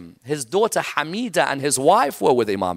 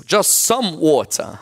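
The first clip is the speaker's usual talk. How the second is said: mournful plea; slower than usual. Acted. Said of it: "That line would be repeated".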